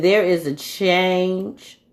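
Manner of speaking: slow, drawn-out, otherworldly; solemn spirit message. Retold or imitated. She voices the spirit's reply slowly and solemnly. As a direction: let the words hang like a message from beyond. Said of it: "And it said".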